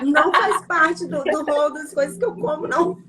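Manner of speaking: talking with a bug in the throat; strained throat, bug just swallowed. Real, not acted. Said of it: "Entrou um mosquito dentro da minha garganta". (voz de quem acabou de engolir um mosquito)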